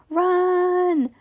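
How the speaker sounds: high, drawn-out cry of Run; high shout. A narrator's reading. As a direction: scream it as you flee. Fleeing monster, shouting.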